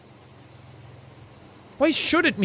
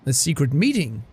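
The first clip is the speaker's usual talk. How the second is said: normal talking voice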